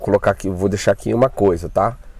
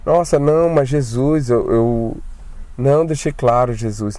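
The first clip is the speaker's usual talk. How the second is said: scared plea; 2 semitones higher than usual. Retold or imitated. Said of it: "E aí eu falei assim".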